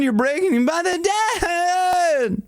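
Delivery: high piercing cry; cry break. Shown as a demonstration. Coach showing students how to break the voice. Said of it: "Play around with your break".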